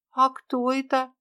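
lightly voiced young girl asking her friend; little girl Tera. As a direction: play a small lost girl, hopeful.

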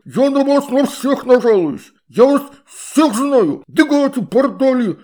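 high, loud outraged water-spirit voice; indignant shout. A narrator's reading. Water spirit indignant about Astrid's mother, high and loud. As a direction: cry out in scandalized outrage.

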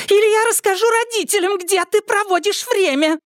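very high, fast threat; shrill threat. Acted. Angelika threatens Irma, very high and fast. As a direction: threaten to tell the parents.

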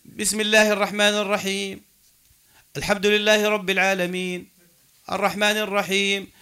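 level recitation pausing after "الرحيم" and "العالمين"; measured demonstration, separate breath pause after "العالمين"; verse-by-verse stops. Shown as a demonstration. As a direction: recite evenly, with a full stop after each verse, as at "الرحيم". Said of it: "يقطع قراءته آية آية".

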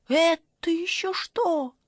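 high, slow startled shriek; yell. Acted. Granny shrieks at the glowing eyes, high and startled. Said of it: "завопила бабушка".

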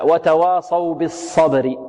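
وتواصوا بالصبر slowly, with a light waw and unrounded sad; teacher's demonstration; slow model reading. Shown as a demonstration. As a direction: recite وتواصوا بالصبر carefully. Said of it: "هكذا".

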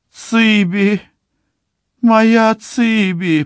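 high, slow crying call. A narrator's reading. Mother weeps as she sees her daughter, high and slow. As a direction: cry out her daughter's name in grief. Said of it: "плачет её мать".

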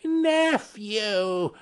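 high, drawn-out rebuke; stern retort. A narrator's reading. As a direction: cut the nephew off sternly. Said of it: "returned the uncle sternly".

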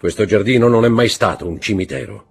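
forceful interrogating voice. Acted. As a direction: corner the prosecutor with questions. Count pressing the prosecutor.

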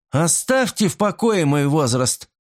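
sharp, high snap; sharp exclamation. A narrator's reading. Crill snapping at Miss Norman over her age, sharp high. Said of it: "резко воскликнула Крилл".

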